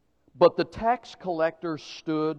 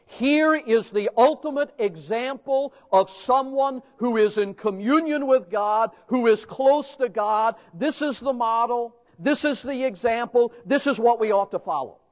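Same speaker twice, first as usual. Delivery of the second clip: mock admiration; 5 semitones higher than usual. Preacher extolling with mock praise.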